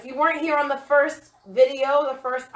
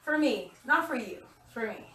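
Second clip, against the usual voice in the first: out of breath; 2 semitones higher than usual. Real, not acted. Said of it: "Let's breathe for a second".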